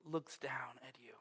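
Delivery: hushed whisper. Acted. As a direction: whisper it like a secret moment. Dramatic moment, whispered.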